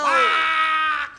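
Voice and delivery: duck quack. Acted. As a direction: honk it like a giant duck.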